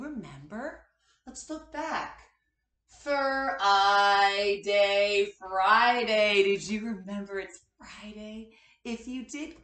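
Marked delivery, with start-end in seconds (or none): 3.0-6.4 a cheerful, louder announcing of the day; excited reveal. Acted. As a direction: announce the answer to the kids with delight. Class guesses the weekday.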